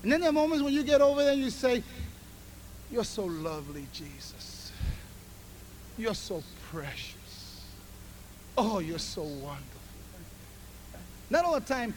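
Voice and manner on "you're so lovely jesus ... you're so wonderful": much softer, lower, intimate adoration; tender whispered prayer. Acted. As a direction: breathe it to Jesus like a lover. Voiced tender prayer to Jesus.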